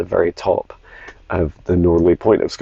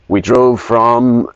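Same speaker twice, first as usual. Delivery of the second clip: slow, slightly raised voice for a dog; lightly voiced pet dog, words drawn out; dog's voice; 4 semitones higher, 4 dB louder, much slower than usual. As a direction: speak slowly as if the dog were answering. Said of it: "he has a, a voice like this".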